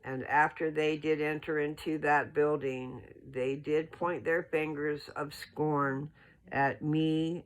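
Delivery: measured, solemn reading of scripture; steady, formal scripture reading voice. Acted. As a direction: read it slow and reverent, like holy text.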